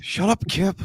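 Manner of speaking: high, whiny mock Valley Girl. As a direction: squeal it like a bratty teen. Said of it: "Valley Girl voice".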